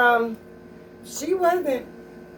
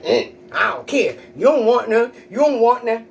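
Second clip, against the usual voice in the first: tough attitude; 5 dB louder than usual. Retold or imitated. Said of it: "ratchet attitude".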